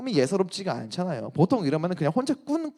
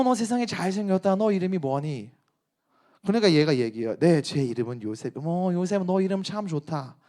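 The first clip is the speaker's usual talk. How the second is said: lightly voiced coaxing rich wife; a hint of a flirty madam teasing; Lalal-style flirty wife. Potiphar's wife flirts with the slave Joseph, lightly put-on. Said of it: "그 버전으로 해볼게요".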